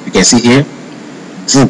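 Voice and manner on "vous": "vous" said as "voo"; French "vous", ending on the vowel; silent final S. Shown as a demonstration. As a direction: say "vous" with no S at the end. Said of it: "it sounds vous".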